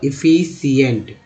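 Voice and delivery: एफिशिएंट drawn out slowly, syllable by syllable; slow demo word. Shown as a demonstration. Teacher reads the word slowly to students, drawn out. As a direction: spell out एफिशिएंट slowly for the class. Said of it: "तो क्या लिखा हुआ".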